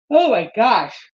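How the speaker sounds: slow, drawn out through a yawn. Real, not acted. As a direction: stretch it out in a yawn. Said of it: "I apologize for all the yawning".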